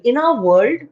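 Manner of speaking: "In our world" cut cleanly, no vowel after "world"; clear breaks. Shown as a demonstration. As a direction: slice "In our world" neatly, ending without stress. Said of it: "you must break it clearly".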